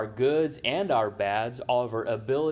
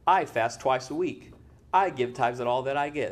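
"I fast", "I give", with the word I stressed. Retold or imitated. Boastful Pharisee praying to God, stress on every "I". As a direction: lean on each "I" at the start of the boast. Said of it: "I put the emphasis on the "I's".

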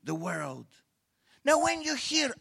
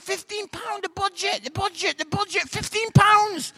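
indignant explaining; 12 semitones higher, 5 dB louder than usual. Retold or imitated. Retelling his defence to wife.

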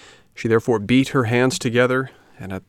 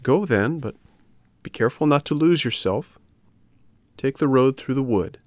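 higher-pitched fairy giving advice; advising fairy; 5 semitones higher than usual. Acted. Fairy sending puppet into the wood, higher advising voice. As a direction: caution him in a raised fairy voice.

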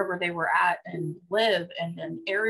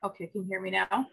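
echoing tunnel; 4 dB quieter, much faster than usual. Real, not acted. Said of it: "You sound like you're in a tunnel".

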